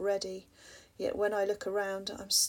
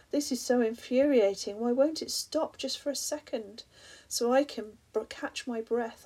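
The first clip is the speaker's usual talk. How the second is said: raised, higher, louder, exasperated; frustrated anger; 3 semitones higher, 3 dB louder than usual. Acted. Speaker caught in the storm rails at the sea, angry. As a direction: vent fury at the endless waves. Section titled Fury, raging at storm.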